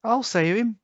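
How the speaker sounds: volunteer bravely in a tiny squeak; squeaky squirrel. A narrator's reading. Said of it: "squeaked the squirrel".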